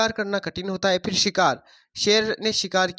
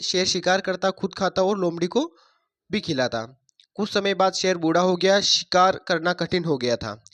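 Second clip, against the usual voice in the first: put-on reading a story to children, a bit louder; 3 dB louder than usual. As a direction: tell the fable to the class. Teacher reads story to class. (बच्चों को कहानी सुनाते हुए)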